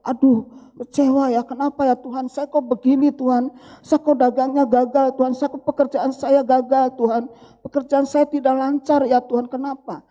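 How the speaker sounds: mildly plaintive mock prayer; disappointed complaint. Believer asking God why work fails, mock disappointed complaint. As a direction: lament to God, lightly acted. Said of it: "membuat kita kecewa".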